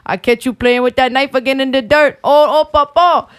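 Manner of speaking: lightly voiced Cajun old man; a hint of a scolding Cajun grandpa. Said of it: "She does do that good".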